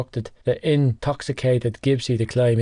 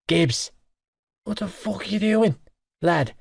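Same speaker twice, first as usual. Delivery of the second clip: barking; 7 semitones higher than usual. Acted. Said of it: "I barked".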